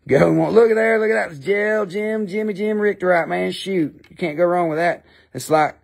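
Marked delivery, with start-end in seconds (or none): 0.1-4.0 higher, mildly excited sales patter; excited auctioneer. Acted. Auctioneer hyping the rock to bidders, lightly excited. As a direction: hype the lot like an auctioneer.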